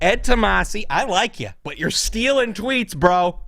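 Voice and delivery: loud, high, exasperated appeal; mock scolding. Host scolding Ed Tomasi for stealing tweets, exasperated. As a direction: call him out in exaggerated disbelief.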